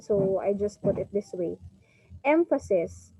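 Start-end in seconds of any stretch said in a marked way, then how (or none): 2.3-3.1 Emphasis, front-stressed word-list demo; stress on first syllable. Shown as a demonstration. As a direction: punch the EM in Emphasis. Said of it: "is how you pronounce it".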